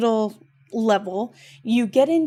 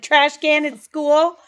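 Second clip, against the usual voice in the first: put-on child's reply; 6 semitones higher, 4 dB louder than usual. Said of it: "she's like".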